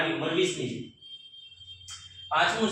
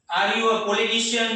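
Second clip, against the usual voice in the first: slow, careful classroom question; slow model question; 4 semitones higher, much slower than usual. Shown as a demonstration. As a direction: stretch the question out for learners. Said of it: "teacher models the question". (ધીમો પ્રશ્ન)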